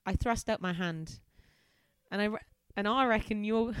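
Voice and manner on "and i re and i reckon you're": hammed-up Aussie accent; horrendous Australian. The speaker guessing who she is meeting, in a horrendous Australian accent. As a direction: attempt a broad Australian accent. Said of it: "Horrendous Australian".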